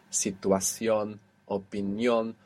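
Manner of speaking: "situación, opinión" slowly, stress on each final syllable. Shown as a demonstration. Teacher lists ion words as examples, "situación, opinión" stressed on the end. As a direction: land on the -ción and -nión of "situación, opinión". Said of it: "all have their accent on the end".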